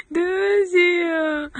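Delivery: laughing. Real, not acted. Laughing while thinking it over.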